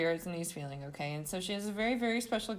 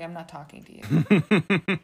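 snappy retort; 2 semitones lower, 9 dB louder, slower than usual. Retold or imitated. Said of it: "And she's like".

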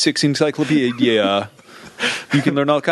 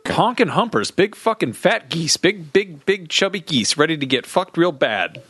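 raised silly rant voice; high goofy voice; 4 semitones higher than usual. Pretend. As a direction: pitch it up and goof around.

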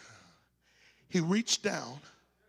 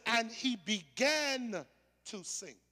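BEGAN drawn out slowly before "to sink"; slow, weighted "began"; stress on began; 4 semitones higher, slower than usual. Shown as a demonstration. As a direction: linger on "began", then let "to sink" fall away. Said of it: "Do not say Peter sank".

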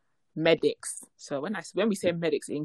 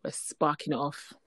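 whispering; 2 semitones lower, 5 dB quieter than usual. Real, not acted. Aside to co-host.

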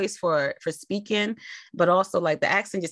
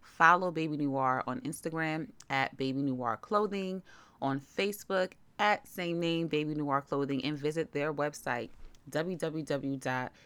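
softer, measured promotional read; sponsor ad read; 3 semitones lower, 8 dB quieter than usual. Real, not acted. Host promoting a toddler clothing brand to listeners, ad read. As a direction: read the sponsor spot evenly and softly.

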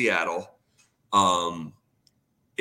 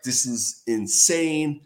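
slow, drawn-out disbelief; stunned disbelief; 4 semitones higher, much slower than usual. Retold or imitated. Telling how he reacted to the Seattle offer, slow stunned disbelief. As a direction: let it sink in slowly, stunned. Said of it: "And I'm like".

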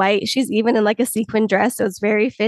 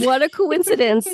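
awkward, a touch higher; awkward Stevie; 3 semitones higher than usual. Retold or imitated. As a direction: play it stiff and awkward. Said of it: "hundred percent awkward".

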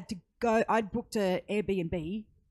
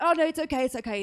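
flustered reassurance; 6 semitones higher, 4 dB louder, much faster than usual. Retold or imitated. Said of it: "And I'm just like".

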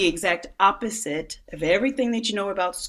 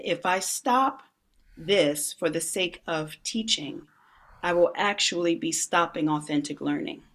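calm parent. Retold or imitated. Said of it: "the parent in me said".

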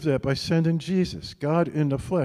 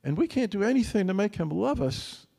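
higher, in awe of his love; marveling; 8 semitones higher than usual. Real, not acted. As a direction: lift up in delighted wonder. Preacher marvels at God's love.

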